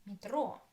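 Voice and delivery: "Metro" stressed on the final o. Shown as a demonstration. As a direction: lean on the ro of "Metro".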